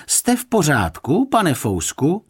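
calling out. A narrator's reading. Guest calling into the closed chest, high questioning shout. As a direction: call through to someone shut away. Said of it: "zaťukal na truhlu a zavolal".

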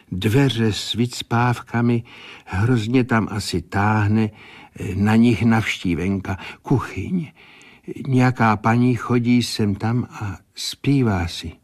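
lightly voiced seer, measured and deliberate; a hint of a clairvoyant listing what she sees; clairvoyant's vision. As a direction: report each detail as if seeing it in a trance.

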